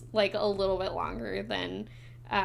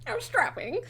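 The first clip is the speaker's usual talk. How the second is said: swooning fish lady; 11 semitones higher than usual. Acted. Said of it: "and you hear".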